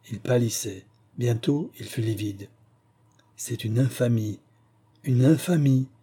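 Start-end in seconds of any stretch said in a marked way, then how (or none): 3.4-4.4 first "infamie" held back, trembling; teeth chattering. Acted. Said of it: "dit-il en claquant des dents". 5.0-5.9 "une infamie" repeated higher and louder, breaking out; teeth chattering outcry. Acted. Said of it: "dit-il en claquant des dents".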